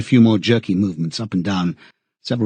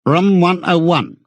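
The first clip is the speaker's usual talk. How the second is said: high, drawn-out official call; stretched, raised-pitch summons; officer's order; 7 semitones higher than usual. A narrator's reading. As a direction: call it out slowly like a prison officer. Officer calls prisoner to Room 101.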